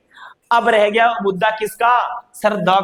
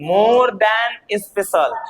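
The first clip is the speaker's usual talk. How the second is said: more than special, very slow; slow emphasis; much slower than usual. Shown as a demonstration. Teacher repeating the key phrase slowly. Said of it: "क्या?".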